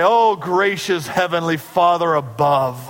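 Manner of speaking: slow, grand, self-important prayer; mock-lofty Pharisee praying to be seen; showy formal prayer. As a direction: ham up a flowery public prayer. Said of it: "maybe we would say".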